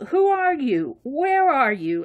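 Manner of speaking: high, drawn-out puzzled questions; acted bewilderment. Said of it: "And I'm going".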